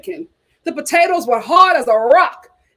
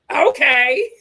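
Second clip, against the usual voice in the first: laughing. Real, not acted. Laughing at reviewer's stumble.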